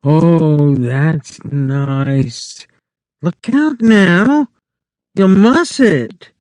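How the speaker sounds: high and slow, pleased then warning; a vain wife enjoying it, then careful; wife's voice. A narrator's reading. Wife answers Lenny.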